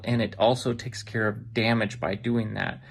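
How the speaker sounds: usual speaking voice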